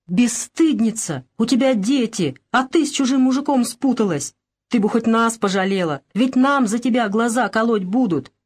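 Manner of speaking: бранить дочь, выше и напористее; материнская брань, слегка повышенный голос; ругает. Acted. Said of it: "принялась ругать её". (мать стыдит дочь, бранится)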